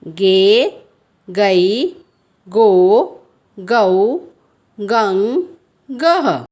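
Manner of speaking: each syllable from गे to गह said apart; teacher reading barakhadi aloud; syllable drill. Shown as a demonstration. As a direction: recite the syllables one by one. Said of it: "इसी प्रकार".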